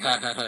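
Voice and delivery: light, spelt-out "ha ha ha"; mock laugh, not a real one; imitated mocking laugh. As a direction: imitate someone laughing at a victim. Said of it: "he's, like, laughing at him".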